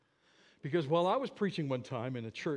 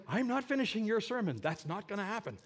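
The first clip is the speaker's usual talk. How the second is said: retold refusal; 7 semitones higher than usual. Interpreter refuses in retold exchange.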